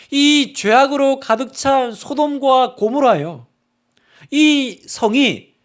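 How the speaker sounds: drawn out, each word weighted; 소돔과 고모라 slowed and pressed; slow emphatic preaching. Real, not acted. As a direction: lean hard on every word. Preacher stressing Sodom.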